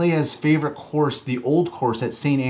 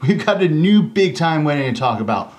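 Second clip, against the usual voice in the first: hyped announcer; 3 semitones higher, 5 dB louder than usual. Acted. Host hypes celebrity wedding.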